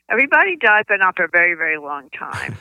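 brisk, matter-of-fact mom settling it quickly; brisk no-nonsense mommy. Retold or imitated. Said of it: "brisk, no-nonsense mommy voice".

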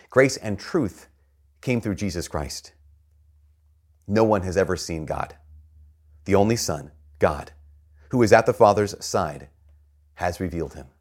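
solemn, measured Gospel reading; scripture reading. Acted. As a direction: read it out formally to a congregation, pausing between phrases. Reads the Gospel aloud.

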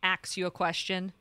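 "Ask" said as "ax"; mispronounced ask. Shown as a demonstration. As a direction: swap the S and K in "Ask": "ax". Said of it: "Not ask".

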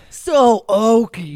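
loud, slow, laughing drawl. Real, not acted. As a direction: laugh the words out.

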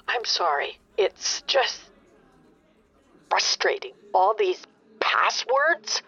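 unvoiced, sighing apology; tired caller apologising to the agent; weary apology. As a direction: breathe it out, worn down. Customer softens, sighs.

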